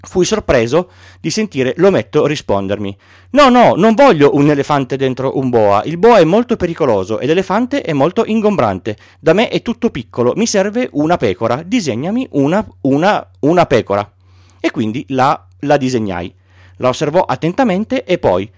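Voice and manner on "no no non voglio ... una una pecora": put-on a small boy insisting on his sheep; gently voiced child asking for a sheep; Little Prince.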